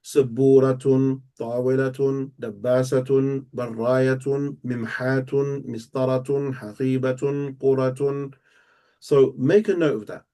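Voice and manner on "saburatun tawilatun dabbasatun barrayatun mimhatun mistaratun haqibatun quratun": slow monotone word list, each ending in a full "tun"; drawn-out, level recitation of the "-tun" endings; sounding the tun ending. Shown as a demonstration. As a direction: chant each word slowly, landing clearly on its final "tun". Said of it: "all end in what sound".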